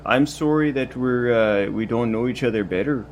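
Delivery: put-on Canadian accent. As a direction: apologize gently in a Canadian accent. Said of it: "that Canadian accent of yours".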